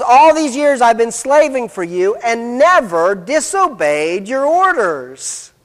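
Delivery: emphatic, stretched-out "your orders"; mildly acted righteous protest; claiming complete obedience. Older son claims he never disobeyed, self-righteous. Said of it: "he claims complete obedience".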